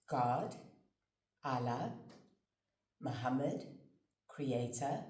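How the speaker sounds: measured story narration with long pauses; storytelling. Acted. Speaker telling listeners a creation tale of love, measured storytelling. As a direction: unfold it phrase by phrase, letting each one settle.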